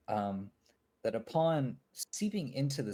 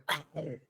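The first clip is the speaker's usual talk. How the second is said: zombie retch; 6 semitones higher than usual. Acted. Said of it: "pretty good Minecraft zombie impression".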